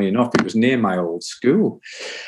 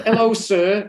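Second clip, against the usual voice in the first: sheepish laugh; 11 semitones higher than usual. Retold or imitated. Greeting old teacher sheepishly.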